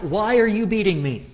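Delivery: high, loud, begging donkey; loud high donkey plea; pleading donkey voice. Acted. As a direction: cry it out as the donkey.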